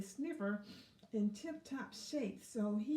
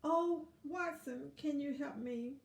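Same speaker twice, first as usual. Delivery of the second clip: pleading ladybug; 4 semitones higher than usual. Acted. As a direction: earnestly ask for help. Ladybug voiced in story.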